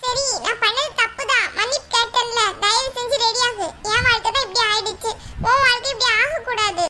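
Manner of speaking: mildly tearful plea; tearful pleading. Acted. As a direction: plead with a touch of tears. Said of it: "சரி, நீ அழாத". (லேசான அழுகையோடு கெஞ்சல்)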